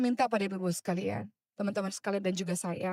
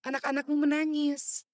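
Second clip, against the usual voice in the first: wistful retold words; 5 semitones higher than usual. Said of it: "saya katakan".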